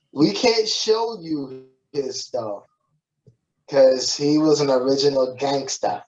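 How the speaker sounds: a hint of New York in the quote; New York accent. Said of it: "So that's my New York accent for that".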